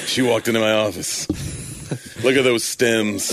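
hard-boiled fifties detective narration; noir detective. Pretend. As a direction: growl it out like an old film noir gumshoe. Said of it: "like a fifties film noir detective".

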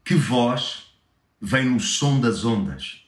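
poem read in Lisbon Portuguese; European Portuguese accent. Shown as a demonstration. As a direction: read it with clipped Portuguese vowels. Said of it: "agora em português de Portugal".

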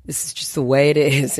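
stuffy nose from a cold; talking through a head cold; nasal voice. Real, not acted. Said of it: "sorry if I sound a little nasally".

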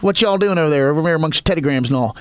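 hammed-up rural American accent; put-on American drawl. American visitor flirting with Australian women, hammed-up American accent. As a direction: play up a Western Maryland American accent. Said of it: "the American accent is, is supposedly hot as hell".

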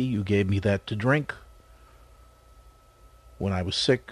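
measured, slightly low reflective delivery with long pauses; solemn scripture recitation. Real, not acted. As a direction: recite it reverently, phrase by phrase. Solemnly paraphrases scripture before the break.

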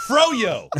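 high holler that drops away; yelled nonsense catchphrase. Shown as a demonstration. Batter yelling to make everyone laugh, high holler. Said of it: "You gotta yell something out there".

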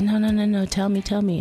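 husband pressing her to spill it, pitched high; retold eager "tell me, tell me"; eager insisting. Husband urging his wife to share her news, eagerly.

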